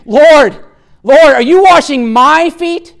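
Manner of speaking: emphatic protest. Retold or imitated. Peter protesting as Jesus kneels to wash, emphatic. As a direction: protest in disbelief at the master stooping. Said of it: "it's very emphatic in the Greek text".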